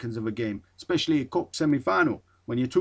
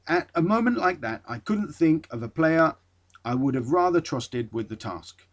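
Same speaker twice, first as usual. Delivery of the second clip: manager quote; 2 semitones higher than usual. Retold or imitated. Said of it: "I'm not too sure he spoke like that".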